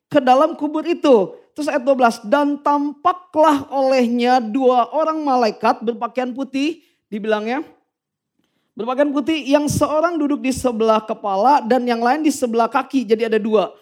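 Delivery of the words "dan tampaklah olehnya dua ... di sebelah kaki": scripture reading. Acted. Reads Bible verse aloud slowly.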